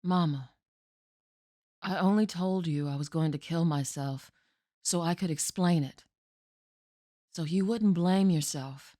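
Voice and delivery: grave stage monologue of a daughter to her mother; desperate daughter Jessie. Acted. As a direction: make Mama finally understand. Performs Jessie's monologue from Night Mother.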